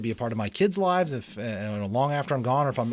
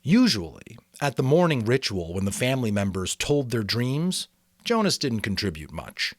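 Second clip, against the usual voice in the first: steady read-aloud storytelling voice; story narration. A narrator's reading. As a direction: read the chapter like a bedtime novel. Reads novel chapter aloud.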